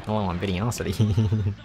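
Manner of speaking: slow, lightly put-on streamer voice; a hint of Videosity, drawn out slowly; mock intro as a streamer, only slightly voiced; Videosity impression. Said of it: "This is my Videosity impression".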